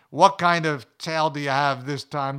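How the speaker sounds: playful, mildly skeptical ribbing; friendly disbelief. Retold or imitated. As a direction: tease a friend about his tall tale. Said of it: "with that friendship disbelief in their tone".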